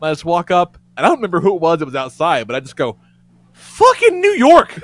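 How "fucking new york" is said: high, loud, slow and laughing; exasperated outburst. Retold or imitated. Guest vents to friends outside the bodega, loud, high and laughing. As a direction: throw your hands up at the city.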